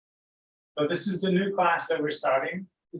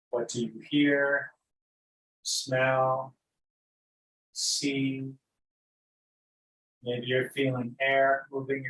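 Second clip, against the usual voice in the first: unhurried, lead them gently into noticing breath and body; guided meditation. Real, not acted.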